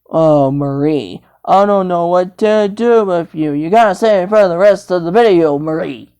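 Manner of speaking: a touch of weary scolding, pitched low; mild exasperation. Pretend. Telling Marie to save it, mildly exasperated low voice. Figure sighs at Marie's behaviour.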